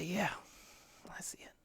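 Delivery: quiet knowing whisper; God's calm reply. Retold or imitated. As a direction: answer gently and simply. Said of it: "would just say, whisper".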